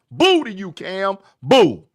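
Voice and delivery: loud, punchy mock heckle; jeering boos. Real, not acted. Panelist heckling Cam over his holdout, loud jeering boos. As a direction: boo him out loud, hitting each boo.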